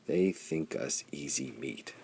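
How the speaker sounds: slow, soft whisper, menacing; said softly. Acted. Hearth watches the enemy approach, soft grim whisper. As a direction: breathe it out low and grim. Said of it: "Hearth said softly".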